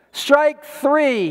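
high-pitched called-out strike; mock yell. A narrator's reading. Preacher voices boy calling his third miss, mock yell. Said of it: "he yelled".

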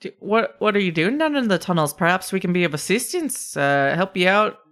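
chatty, lightly Scottish lilt; kobold Scottish brogue. Acted. Kobold offers help for money, chatty Scottish lilt. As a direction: propose a deal in a mild brogue. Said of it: "Scottish brogue".

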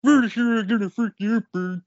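high, fast taunting fighter voice; trash talk. Acted. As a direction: taunt the opponent. Swedish Chef trash talk.

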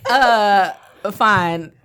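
talking while popping gum; bubble gum popping. Real, not acted. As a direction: chew gum mid-sentence. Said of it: "Stop popping that gum".

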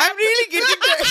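high, hammed-up Santa voice; inept Santa. Trainee Santa defending himself, high silly voice. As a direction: insist it in a high mock Santa voice.

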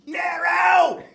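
high, loud drawn-out shout; calling from afar. Acted. Character coming up from a distance, high hailing shout. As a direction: holler the name across a distance. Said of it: "he's from a distance coming up to him".

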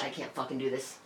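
soft, drained and low; defeated. Retold or imitated. Telling her boyfriend she is done, quiet and defeated. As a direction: give up, worn out. Giving up and leaving.

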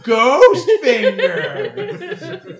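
high laughing, very drawn out; laughing squeal. Real, not acted. Laughing repeat of phrase.

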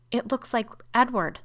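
high, loud fearful outburst; frenzy of fear. A narrator's reading. Sister names the dead brother, fearful outburst. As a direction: burst out with it, afraid. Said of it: "burst out Rebecca in a sort of frenzy of fear".

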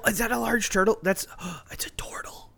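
surprised. Acted. First sight of a turtle.

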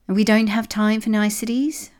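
grumpy echidna, voice pushed up; irritable snap. A narrator's reading. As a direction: cut off the pleasantries crossly. Grumpy echidna snaps back at Rose.

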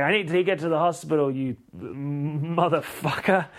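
hammed-up urgent cursing; mock urgent anger. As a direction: rush the demand, then stretch the insult. Acted labouring woman swearing at him.

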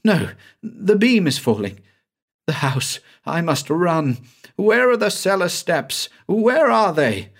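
high, panicked voice of a fleeing man; frantic Banks. A narrator's reading. Trapped man hunts the cellar steps as beams fall, frantic. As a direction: scramble for the steps in terror.

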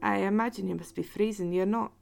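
hesitant Scottish host; Scottish accent. Acted. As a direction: offer shelter haltingly in a Scottish accent. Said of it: "when I start doing a Scottish accent".

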